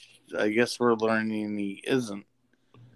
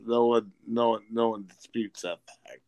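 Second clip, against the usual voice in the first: politician voice; 3 semitones lower than usual. Retold or imitated. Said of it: "You sound like a fucking politician".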